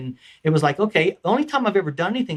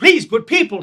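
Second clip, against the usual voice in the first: King Arthur; 7 semitones higher, 7 dB louder than usual. Acted. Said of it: "here comes King Arthur again".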